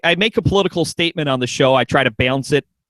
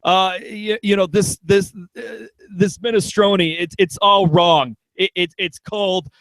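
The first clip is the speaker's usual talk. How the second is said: Bernie Sanders impression. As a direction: grumble like a picky diner. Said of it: "on the Upper West Side saying".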